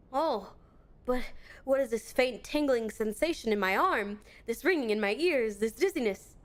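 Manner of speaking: lightly voiced pompous inspector, grandly proclaiming; a touch of a theatrical self-important detective; mild hammed-up gentleman sleuth; Hildebrand voice.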